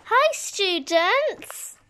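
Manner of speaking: slow, drawn-out teacher greeting; child playing teacher, greeting the class slowly; pretend teacher. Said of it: "Wait, the teacher's here".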